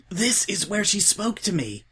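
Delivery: high, eager zealot voice; eager Twilight. A narrator's reading. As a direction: point it out with hushed pride.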